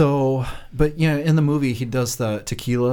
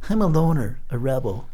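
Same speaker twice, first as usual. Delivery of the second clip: Pee-wee voice. Retold or imitated. Fan quoting Pee-wee's reply to Dottie. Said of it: "Your Pee-wee voice is so good".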